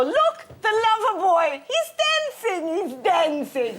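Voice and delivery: very high, loud, drawn-out mother impression; excited eccentric mother. Eccentric mother showing guests her dog, hammed-up excitement. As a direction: crow it in a high, stretched voice. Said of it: "my mother would go".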